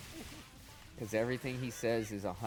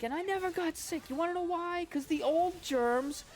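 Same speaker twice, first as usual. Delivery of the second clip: high, loud ranting comic impression; much higher mock comedian rant; Orny Adams rant; 5 dB louder than usual. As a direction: yell it like a fed-up comic on stage. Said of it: "He's like".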